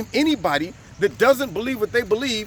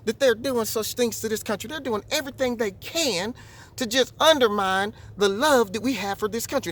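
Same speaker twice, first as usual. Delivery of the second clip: a hint of Southern accent, softer; light Southern accent; 4 dB quieter than usual. Older white lady in the store complaining, light Southern accent. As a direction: lightly imitate an old Southern lady's accent. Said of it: "she had this little Southern accent".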